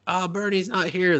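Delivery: high-pitched, mock Asian accent; put-on Asian accent. Shopkeeper turning visitors away from Bernie's, put-on Asian accent. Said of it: "Are you doing a racist Asian voice".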